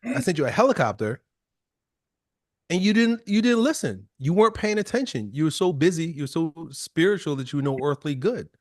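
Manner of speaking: God scolding the drowned man; exasperated God. Retold or imitated. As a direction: scold him for not listening. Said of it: "I don't think God says goddamn".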